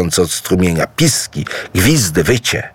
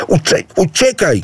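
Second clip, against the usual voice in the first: higher stumbling yell to run away; animals shouting; 10 semitones higher than usual. A narrator's reading. The wild animals shout at Idu to flee. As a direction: shout him off the field. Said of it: "krzyczały zwierzęta".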